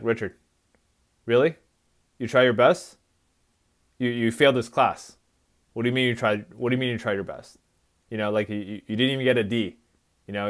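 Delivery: an understated, even take on a yelled scolding; calm retelling. Retold or imitated. Son retelling his mother's scolding over an F, calm and even. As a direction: keep it calm though she was yelling. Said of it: "I'm talking in a very calm way".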